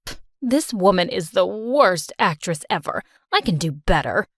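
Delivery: mom mocking the actress on screen; dismissive scoff. Mom sneers at a soap actress, scoffing.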